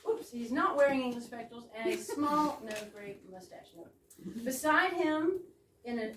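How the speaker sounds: mock-formal stage-direction read; a script read with playful weight on English. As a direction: announce the scene as in a script.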